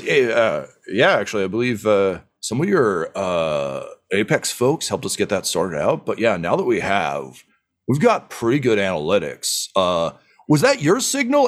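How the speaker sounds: lightly voiced boisterous dwarf leader, welcoming; a hint of a proud dwarf boss greeting guests; hearty dwarf chief. Dwarf chief welcoming the party to her habitat, lightly voiced hearty. GM voices Keg Stand Kelly.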